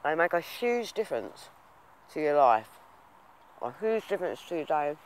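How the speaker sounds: talking while chewing ribs; words around a mouthful of food; mouth full. Real, not acted. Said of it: "I shouldn't talk with my mouth full".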